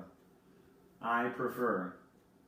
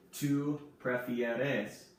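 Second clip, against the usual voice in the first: slow model word; much slower than usual. Shown as a demonstration. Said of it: "teacher models the tú form".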